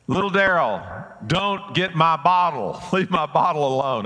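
a hint of a grumbling worker shooing a kid off; lightly voiced tradesman playfully warning a boy; workman scolding. Workers scold kid over bottles.

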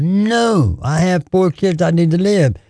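retold holler. Mother in a bear's jaws refusing to die, hollering. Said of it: "she hollered".

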